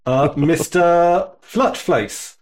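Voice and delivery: slow, formal teacher greeting; substitute teacher voice. Pretend. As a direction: greet the class like a stand-in teacher. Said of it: "why do you sound like a substitute teacher right now".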